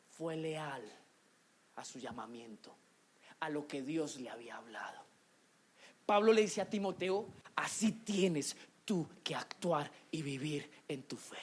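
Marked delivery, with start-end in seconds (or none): 0.1-5.0 dropping from soft to a whisper; hushed sermon climax, voice fading to whispered words; falling into a whisper. Real, not acted. Hushed climax about Jesus' loyalty. 7.5-11.4 soft, lower whisper; Paul whispering his charge to Timothy. Acted.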